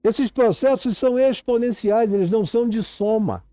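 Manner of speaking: urgent, insistent sermon delivery; impassioned preaching. Real, not acted. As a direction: preach it with rising urgency, stretching the key words.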